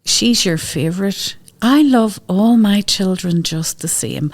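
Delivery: slow, sulky complaint; sulky kid. Retold or imitated. The impulsive boy complaining to his mum, slow and sulky. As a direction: drag it out like a wronged child. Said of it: "he'll say later on".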